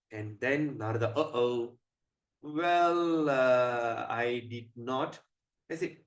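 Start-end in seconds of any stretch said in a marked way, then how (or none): 1.2-5.2 slow, halting, stalling confession; sheepish admission. Acted. Narada admitting to Shiva he brought nothing, sheepish. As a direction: stretch it out, reluctant to own up.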